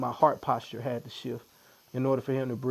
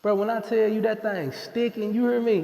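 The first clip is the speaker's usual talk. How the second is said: pained; 7 semitones higher, 4 dB louder than usual. Real, not acted. Getting needled during podcast.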